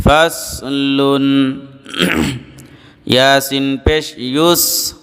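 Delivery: measured, level spelling chant with held endings; recitation drill. Shown as a demonstration. Teacher leading students letter by letter, measured recitation drill. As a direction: chant the spelling, then draw out the joined word.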